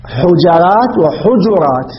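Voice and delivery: حجرات said first as hujarat then hujurat, slow; both readings, slowly. Shown as a demonstration. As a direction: give both vowelings of حجرات at half speed. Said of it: "يعني يجوز".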